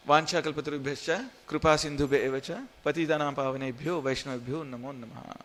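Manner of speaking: rapid Sanskrit prayer recital; fast devotional mantra; prayer recitation. Acted. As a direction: rattle off the memorised prayer quickly.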